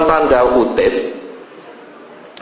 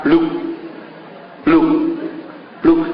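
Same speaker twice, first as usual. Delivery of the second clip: footstep sounds; 4 dB quieter than usual. Retold or imitated. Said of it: "ada suara langkah".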